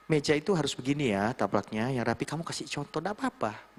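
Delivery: softly spoken patient instruction. Shown as a demonstration. Mentor modelling how to show staff a tidy table, patient. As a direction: show them gently, step by step. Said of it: "dengan kesabaran".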